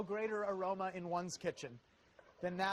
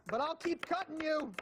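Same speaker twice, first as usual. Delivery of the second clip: higher, teasing threat to the onion; playful taunt; 8 semitones higher, 3 dB louder than usual. Acted.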